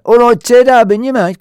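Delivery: acted loud, high hail to a mate; high-pitched matey shout; hearty greeting. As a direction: call out a cheery hello.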